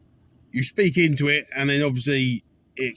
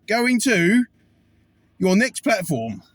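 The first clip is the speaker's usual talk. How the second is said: station announcer; 5 semitones higher, slower than usual. Retold or imitated. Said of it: "it's like on the old, um, train station".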